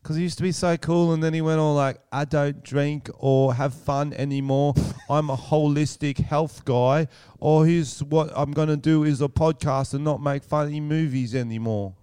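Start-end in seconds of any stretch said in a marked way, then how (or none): 2.1-11.9 Russell Brand impression. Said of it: "That was a very good impression".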